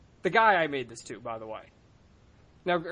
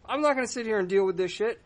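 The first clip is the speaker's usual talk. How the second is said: mock angry outburst, higher pitch; replaying the moment of losing temper; retold blowup; 5 semitones higher than usual. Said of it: "I blow up and I'm like".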